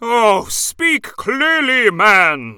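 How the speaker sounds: impatient. Acted. Impatient judge scolding.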